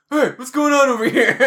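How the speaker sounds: laughing manager imitation. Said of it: "the manager's like".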